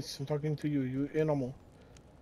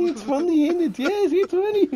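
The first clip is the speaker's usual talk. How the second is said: higher, laughing taunt; mocking laughter; 10 semitones higher, 6 dB louder than usual. Interrogator mocking laughing prisoner, cackling taunt. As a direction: sneer through a laugh.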